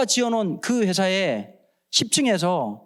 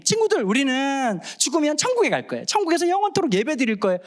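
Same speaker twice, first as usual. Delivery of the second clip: put-on children's preacher; 5 semitones higher than usual. Evangelist addressing children.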